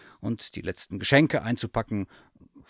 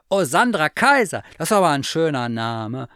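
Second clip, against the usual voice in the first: much higher and louder admiring bear; delighted teddy bear; 6 semitones higher, 9 dB louder than usual. Acted. Hard-of-hearing bear praises the cat's name, high and gushing. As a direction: gush over the name. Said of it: "sagte Thomas Müller".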